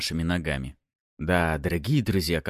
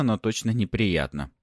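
plain reading voice

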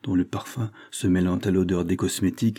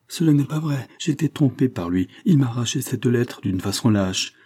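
higher-pitched, urgent self-defence; protestation; 4 semitones higher than usual. Acted. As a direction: protest your innocence with a raised pitch. Il se défend d'avoir trahi. (protestation agitée, voix plus haute)

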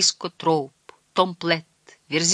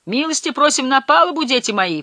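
high, loud call that falls away; 9 semitones higher, 4 dB louder than usual. A narrator's reading. Big sailor inviting the boatmen on deck, calling out high. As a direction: hail them aboard in a raised voice. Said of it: "позвал Верзила Джек".

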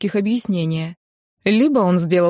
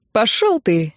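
lazy; 2 semitones higher, slower than usual. Acted. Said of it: "лениво послал его Рен".

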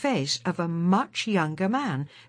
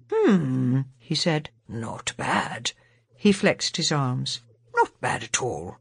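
much lower, pleased with himself; savouring his new body; the new Doctor; 6 semitones lower than usual. A narrator's reading.

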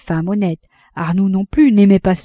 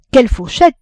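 put-on amazed child; 6 semitones higher, 7 dB louder than usual. A narrator's reading. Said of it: "répétait l'enfant, le cœur ébahi".

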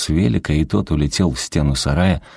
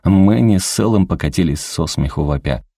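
usual speaking voice

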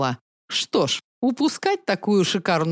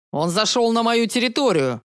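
barking; 3 semitones higher than usual. Acted. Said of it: "рявкнул маньяк-насильник".

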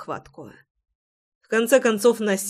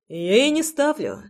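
chuckling; 6 semitones higher than usual. Acted. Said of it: "хохотнул я".

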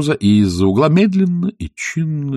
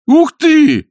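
high, loud "Ух ты!"; boy exclaims at the engravings; excited exclaim; 9 dB louder than usual. A narrator's reading. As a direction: gasp it out in delight. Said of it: "воскликнул Шон".

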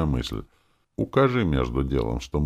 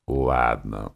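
grumbling; 5 semitones lower than usual. A narrator's reading. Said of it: "проворчал я".

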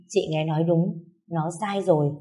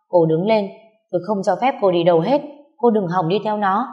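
angry commanding; 2 semitones higher, 4 dB louder than usual. Acted. Husband dragging her away.

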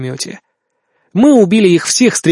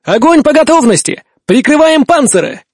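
shouting; 9 semitones higher than usual. Acted. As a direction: roar the order at full voice. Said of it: "я заорал во всю глотку".

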